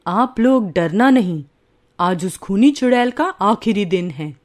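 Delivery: put-on steady the frightened villagers like a wise old sage; calm holy man. Holy man telling scared villagers not to fear, calm and low.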